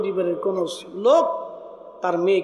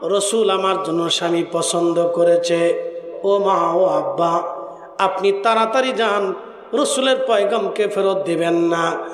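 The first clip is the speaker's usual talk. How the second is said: melodic sermon pleading; 3 dB louder, slower than usual. Acted. Daughter urges parents to accept Julaybib, melodic sermon pleading. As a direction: plead in measured chant, holding the last syllables.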